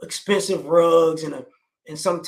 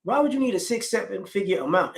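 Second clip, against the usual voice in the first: incredulous question; 3 semitones higher than usual. Retold or imitated. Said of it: "you're thinking to yourself".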